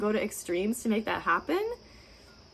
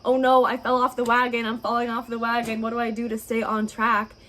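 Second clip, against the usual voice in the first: louder, fretful wail; mock panic about falling off the wagon; panicked; 5 dB louder than usual. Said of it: "People always say to me".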